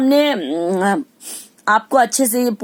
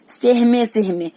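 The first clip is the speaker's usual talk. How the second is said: timid and slow; slower than usual. Shown as a demonstration. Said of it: "कहीं से कैसे निकलते".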